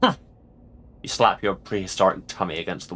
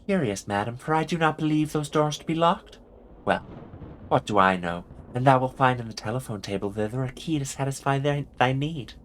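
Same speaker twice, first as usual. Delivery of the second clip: put-on measured Early Modern English accent; Shakespearean-era accent; 2 semitones higher than usual. Landlady points madam to a key, in a Shakespearean accent. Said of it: "closer to the accent".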